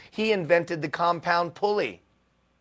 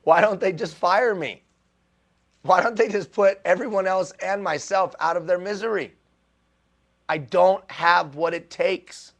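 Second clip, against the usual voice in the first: raised, louder despairing plea, acted out; retold crying plea; 4 semitones higher, 5 dB louder than usual. Speaker recalls lying curled up at night, mock-anguished pleading. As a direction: plead it loudly, replaying an old breakdown.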